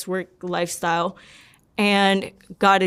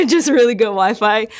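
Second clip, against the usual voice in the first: laughing through the words, louder; real laughing; 3 semitones higher, 5 dB louder than usual. Real, not acted. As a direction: repeat the joke with a laugh. Repeats the joke while laughing.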